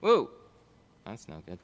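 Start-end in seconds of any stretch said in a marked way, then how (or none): 0.0-0.3 surprised. Real, not acted. Stream froze.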